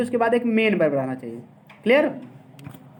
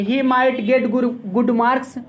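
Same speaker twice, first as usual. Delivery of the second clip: slow dictation; 2 semitones higher, much slower than usual. Shown as a demonstration. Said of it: "या फिर कह सकते हो".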